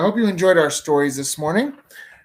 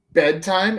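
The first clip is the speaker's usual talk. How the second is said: surprised exclamation; 6 semitones higher, 6 dB louder than usual. A narrator's reading. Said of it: "exclaimed Jim".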